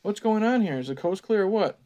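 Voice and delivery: a lightly voiced high call from afar. Albert calling to the campers from outside, high. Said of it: "a high voice called from far outside".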